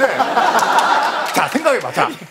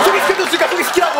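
high, exasperated insistence; insistent demand; 6 semitones higher than usual. Acted. Comedian arguing back for his introduction, insistent demand. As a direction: push the demand harder, pitched up. Acted quarrel, repeating demand.

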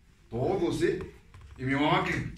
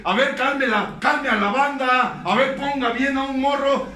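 high, loud, hammering preacher's rant; preaching at full force; 10 semitones higher, 9 dB louder than usual. Acted. Speaker at the tribune bellowing orders at newcomers. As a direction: pound the room with every "a ver".

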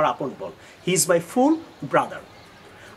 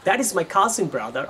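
slow wrong example; much slower than usual. Shown as a demonstration. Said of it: "আপনার এটা বলার দরকার নাই".

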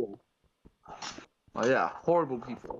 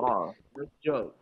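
mock polite Canadian. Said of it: "Or they'll just be like".

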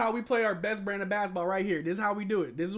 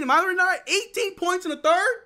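excited; 10 semitones higher, 6 dB louder than usual. Real, not acted. Boasting fan.

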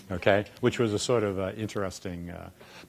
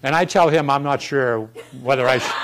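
laughing; 4 semitones higher, 8 dB louder than usual. Real, not acted. Teasing joke to the audience.

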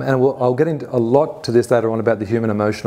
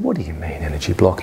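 not nasty; 7 semitones lower, 4 dB quieter than usual. Retold or imitated. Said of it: "Not in a nasty way".

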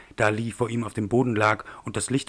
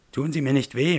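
higher, louder begging that drops on the last word; frightened pleading; 4 semitones higher, 5 dB louder than usual. Acted. Man on the ground begs his attacker, frightened plea. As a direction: plead for mercy with rising fear.

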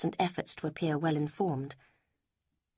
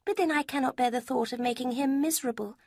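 a higher, lighter voice for Lucy; Lucy, higher voiced; 8 semitones higher than usual. A narrator's reading. Lucy quizzing Eleanor about Mrs Ferrars, higher voice. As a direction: lift the pitch for the young woman Lucy.

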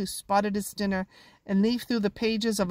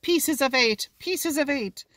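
bellowed; 5 semitones higher, slower than usual. Acted. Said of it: "bellowed the last end".

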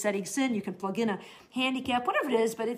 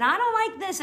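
grumbling thought; 9 semitones higher, 5 dB louder than usual. Retold or imitated. Voicing inner grumbling thoughts.

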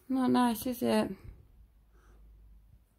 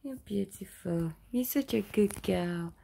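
tender praise; 4 semitones higher, slower than usual. Acted. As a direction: murmur it lovingly and slowly.

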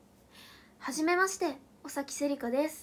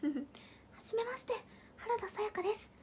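imitating Sayaka; 5 semitones higher, 9 dB quieter than usual. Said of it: "私がモノマネする".

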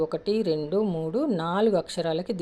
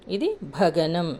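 slow emphasis; 3 dB louder, much slower than usual. Shown as a demonstration. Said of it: "teacher names the gana slowly".

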